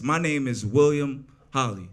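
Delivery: loud, over-enunciated recital of your own name; stilted script reading. Retold or imitated. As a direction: parody a beginner reading from paper. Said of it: "I read from a script".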